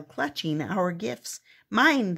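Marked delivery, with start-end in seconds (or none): 1.7-2.2 a loud, falling grabby "Mine"; snatch the word "Mine" like a greedy kid; clamoring. Acted. Trolls clamoring over the gifts, grabby and loud. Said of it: "they clamored".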